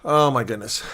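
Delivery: words through a yawn. Real, not acted. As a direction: yawn while talking. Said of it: "Sorry for the yawn".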